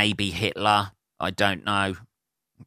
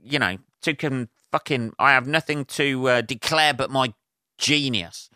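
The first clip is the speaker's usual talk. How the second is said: lightly voiced pompous wit; a hint of a self-important dandy; pompous Oscar Wilde. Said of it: "with his, like".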